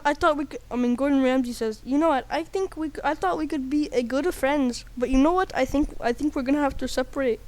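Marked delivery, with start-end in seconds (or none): 1.8-7.4 put-on lightly Indian-accented character; a hint of an Indian accent; Indian-sounding accent. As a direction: slip into an Indian lilt. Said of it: "I sounded Indian".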